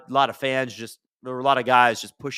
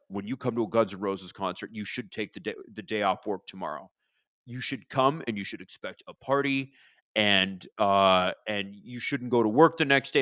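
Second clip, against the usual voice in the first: dumb rock-singer voice; 4 semitones lower than usual. Retold or imitated. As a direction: lecture the fans like a self-important Dracula. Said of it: "in his dumb voice".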